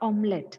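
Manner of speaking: omelette simply as OM-let; correct pronunciation. Shown as a demonstration. Teacher summing up for students, omelette as OM-let. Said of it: "This is the correct pronunciation".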